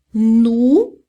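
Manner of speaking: "nu" loud, with a plain oo vowel; French nous. Shown as a demonstration. Teacher modelling nous for students, true U sound. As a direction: say "nu" as French nous, clearly held. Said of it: "o som é de U mesmo".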